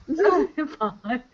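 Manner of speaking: stiff, overly serious. Retold or imitated. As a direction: say it dead serious. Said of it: "And she's so serious".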